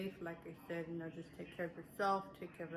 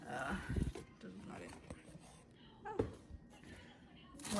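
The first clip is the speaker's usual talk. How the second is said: whisper; 4 semitones lower, 5 dB quieter, much slower than usual. Real, not acted. Aside while searching items.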